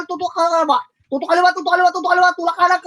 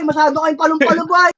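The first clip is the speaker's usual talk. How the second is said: raised voice telling them off; shouted scolding; 3 semitones higher than usual. Real, not acted. Annoyed shotcaller scolding reckless teammates, shouted. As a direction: yell at them to calm down.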